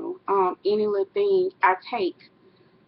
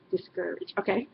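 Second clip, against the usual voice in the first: laughing repeat; 7 dB quieter than usual. Shown as a demonstration. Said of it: "that's how I say it".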